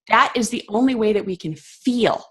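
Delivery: the word "feel" given the weight at the end; earnest stress on "feel". Real, not acted. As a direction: lean into "feel" as the point of it all. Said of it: "And I stress the word feel".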